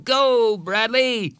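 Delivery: high, loud yell. Acted. Someone yelling Bradley on, loud cheer. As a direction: cheer him on hard. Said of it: "he heard someone yell".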